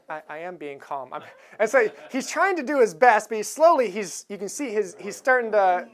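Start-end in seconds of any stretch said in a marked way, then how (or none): 0.1-1.2 much softer, tight held-back voice; strained calm. Retold or imitated. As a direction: bite down on the words. Passenger insists, strained.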